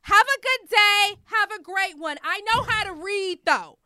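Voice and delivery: high, loud, sweet-sarcastic farewell; sarcastic politeness. Retold or imitated. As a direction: kill her with fake kindness. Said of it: "I said".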